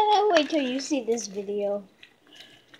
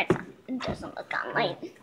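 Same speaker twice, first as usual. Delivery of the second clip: whispering; 3 semitones lower, 9 dB quieter than usual. Real, not acted. Whispering while filming slime.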